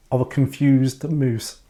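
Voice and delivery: slow, drawn-out confused moose. Pretend. Host doing a silly moose impression to make friend laugh. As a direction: play a baffled moose, slowly. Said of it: "My impression".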